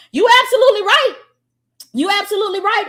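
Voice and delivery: high, loud burst of yes; hyped agreement. Real, not acted. Coach cheering a viewer's comment, excited and loud. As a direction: shout your agreement at the screen.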